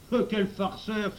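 high, loud, stretched outcry; exclaiming. A narrator's reading. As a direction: cry out in protest. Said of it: "s'écria Émile".

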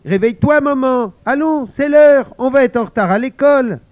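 put-on high, loud, urgent child calling; eager child. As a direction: rouse a sleepy mum, fast at the end. Child wakes sleeping mother. (fillette pressée, aiguë et forte)

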